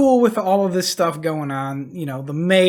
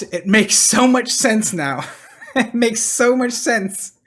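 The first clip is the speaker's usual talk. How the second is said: laughing; 4 semitones higher than usual. Real, not acted. Commentator laughs at the reveal.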